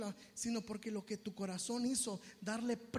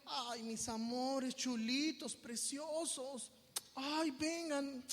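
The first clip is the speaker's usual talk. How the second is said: very slow, cooing endearments; baby them with exaggerated tenderness; drawn-out, syrupy comforting; mock coddling; much slower than usual. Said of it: "No llegó".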